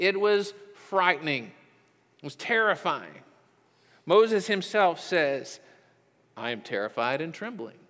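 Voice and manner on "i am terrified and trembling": put-on flat, soft, emotionless, unbothered delivery. Speaker quotes Moses's own words, quoting flatly, deliberately unscared. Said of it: "Doesn't sound very scared".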